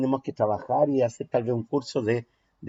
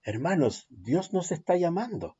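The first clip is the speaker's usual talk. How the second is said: soft voice; 3 semitones higher, 6 dB quieter than usual. Shown as a demonstration. Teacher demonstrating the soft take of a sermon line. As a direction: say it softly to the brothers. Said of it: "cambiar de entonación".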